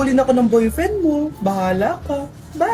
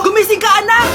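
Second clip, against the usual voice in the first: louder, more urgent wake-up call; mother calling louder to wake her daughter; 5 semitones higher, 5 dB louder than usual. Acted. Mother calls again, louder.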